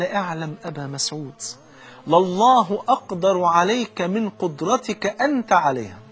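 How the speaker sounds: slow, grave warning with each word weighed; solemn admonition. Retold or imitated. The Prophet warning Abu Masud over the slave, slow and grave. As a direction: draw it out like a stern reminder of God's power.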